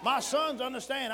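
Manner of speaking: loud slow preacher's call; emphatic declaration. Real, not acted. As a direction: proclaim it slowly to the church.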